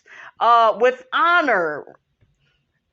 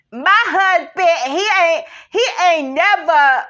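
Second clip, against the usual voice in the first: higher, laughing through the words; can barely get it out for laughing; real giggly, broken-off speech; 5 semitones higher, 4 dB louder than usual. Real, not acted. Laughing while starting about husband.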